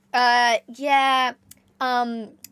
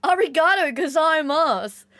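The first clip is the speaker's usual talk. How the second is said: excited thanks; 4 semitones higher, 3 dB louder than usual. Real, not acted.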